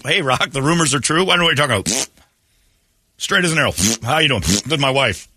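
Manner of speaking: high, breezy fake denial; smooth closeted star. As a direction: laugh off the rumors brightly. Rock denies rumors, greeting guests.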